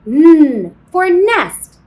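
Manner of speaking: slow, stressed N for nest; stretched N sound. Shown as a demonstration. Teacher to kindergartners, slow and stressed. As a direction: draw out the N like a teacher. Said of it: "letter N says".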